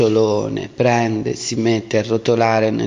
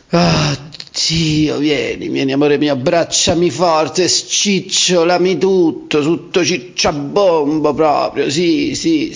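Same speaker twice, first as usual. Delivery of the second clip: higher pleading cuddly voice; pillow talk; 4 semitones higher than usual. Acted. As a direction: coax a lover to hold you. Acting cuddly lover.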